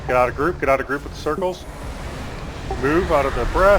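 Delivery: loud urgent warning shouts; yelling warnings. Real, not acted. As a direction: yell at the team to move. Raid leader yelling warnings.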